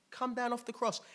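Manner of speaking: high, loud jeer; mocking. Onlookers jeering at Jesus on the cross, mocking. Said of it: "They're mocking him".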